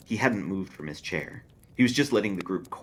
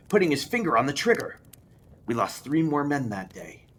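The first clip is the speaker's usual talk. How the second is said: raised, rising dread; louder and higher as the horror builds; haunted soldier; 7 semitones higher, 6 dB louder than usual. Acted. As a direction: Lou recounting the dead sniper, rising dread.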